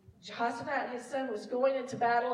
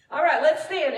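loud, higher rallying call; worship leader's call; 4 semitones higher, 9 dB louder than usual. Shown as a demonstration. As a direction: call the whole congregation up. Imitates leading the congregation.

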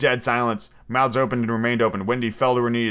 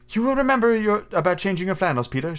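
put-on high-pitched, motherly girl's reminder; lightly voiced anxious little mother; lingering concern; 7 semitones higher than usual. A narrator's reading. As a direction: fuss over him in a high voice. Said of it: "she said, lingering over him".

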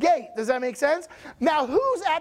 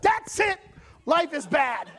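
mock road rage; 3 semitones higher than usual. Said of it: "Instant rage".

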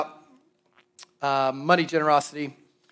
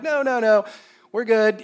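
high, raised-voice mock protest; mock refusal; 6 semitones higher, 5 dB louder than usual. Turning down God's bigger number, loud mock refusal. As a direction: fend it off with a hammed-up no.

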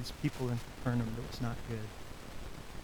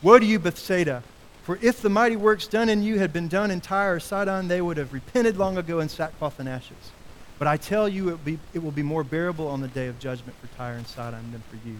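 woes cried out louder; loud denunciation; 4 dB louder than usual. Acted. Jesus denouncing the unrepentant cities, loud. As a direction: denounce the cities at full force. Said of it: "And Jesus says".

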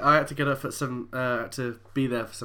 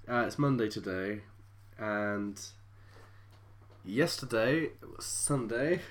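slow with long gaps; weary, halting delivery; tired, slow talk; 3 semitones lower, slower than usual. Real, not acted. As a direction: drag the words out, too tired to think. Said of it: "I'm talking so slow".

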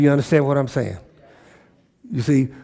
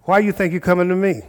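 higher, quicker pointed question; challenging, acted; 4 semitones higher, faster than usual. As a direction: model a brisk challenge. Models a challenge to congregants.

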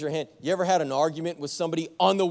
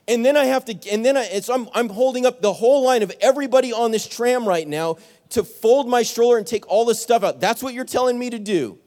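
louder, higher, indignant protest; heating up over the stroller; indignant retort; 4 semitones higher, 4 dB louder than usual. Retold or imitated. Pastor to tram worker, indignant raised voice.

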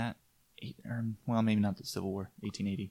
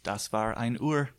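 German; 4 dB louder than usual. Pretend. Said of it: "in German".

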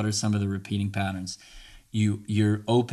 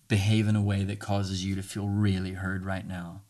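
tender reassurance. Retold or imitated. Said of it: "I look her in the eyes and say".

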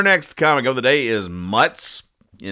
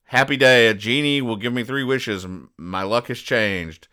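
excited legionnaire. Retold or imitated. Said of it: "he goes".

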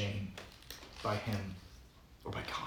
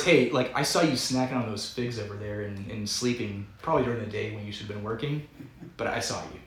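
sarcastic. Retold or imitated. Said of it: "this is all sarcastic".

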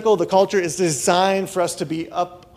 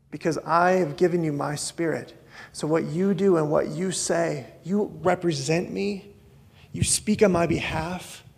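gentle Jesus. Retold or imitated. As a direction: lay it down calmly, like a tender promise. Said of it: "And he says".

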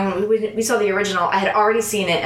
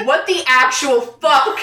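slower, higher mock-incredulous quote; retold disbelief; 4 semitones higher, 3 dB louder, slower than usual. Retelling Zeke's overheard outburst, mildly mock-shocked. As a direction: stretch it out, imitating a stunned viewer.

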